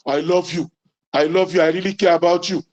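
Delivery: blunt, careless I love you; unromantic way. Shown as a demonstration. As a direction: toss it off like a chore. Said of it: "Oh, it's not romantic, brother".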